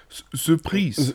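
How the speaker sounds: put-on slow French-accented surprise. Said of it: "wie der Franzose sagt".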